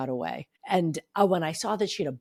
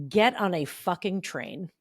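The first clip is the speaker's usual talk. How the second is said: emphatic motherly order; slower than usual. Retold or imitated. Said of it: "and I quote".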